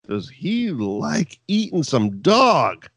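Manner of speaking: slow, drawn-out tease; mock drawl. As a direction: stretch the words out slowly, rising on the last. Voicing Big Boss Man's drawl.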